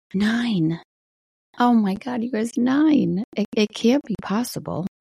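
wistful amazed exclaim; stunned disbelief. Real, not acted. Disbelief at daughter turning nine.

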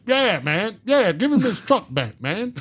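high-pitched hype-man echo; a rapper. Retold or imitated. Bum behind him backing his plea to the police, hype man. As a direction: chime in like an over-eager sidekick, way up high. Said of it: "my hype man back there".

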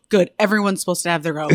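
deadpan joke. Retold or imitated. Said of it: "And I go".

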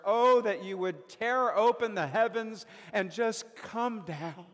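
an anguished prophet begging God to come; anguished plea. Acted. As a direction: cry out to heaven in anguish. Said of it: "with these anguished words".

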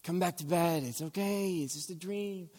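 soft hushed comforting wife; soothing whisper. Retold or imitated. Wife soothing her husband after a nightmare, hushed. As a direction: soothe him back to bed. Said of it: "She'll say".

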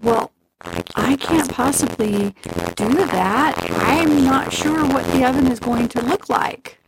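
lightly voiced girl. A narrator's reading. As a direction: play dumb, sweetly.

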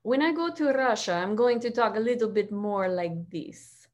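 attempted Russian accent. Shown as a demonstration. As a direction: try on a light Russian accent. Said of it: "Pick an accent and I will try".

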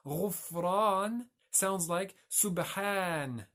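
slow, stretched غفران and subhan to show their shared pattern; word-pattern demonstration. Shown as a demonstration. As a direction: draw out the long "aan" in غفران and subhan. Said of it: "listen to the pattern of the word".

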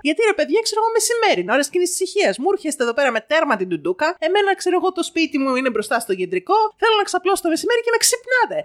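high-pitched, rushed scolding, acted out; retold furious mother. Mother berating a street vendor in his van, furious retold rant. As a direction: tear into him as the outraged mother. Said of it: "Έξαλλη, έξαλλη ήταν".

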